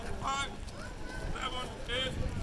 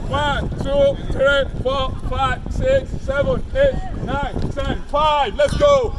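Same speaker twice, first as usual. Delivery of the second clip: shouting the count; 2 semitones higher, 8 dB louder, slower than usual. Real, not acted. Coach shouting counts to class.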